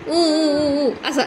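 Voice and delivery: playful fake whimpering oo oo oo; mock crying. Shown as a demonstration. Parent showing baby how big brother cries, mock whimper. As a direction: imitate a child's sob for the baby, hammed-up. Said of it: "दादा कसा रडतो?".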